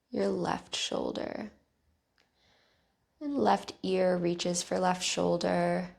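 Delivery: calm, even guiding voice with long pauses; guided meditation. Real, not acted. Teacher guiding listeners through bedtime neck stretches, calm guided meditation.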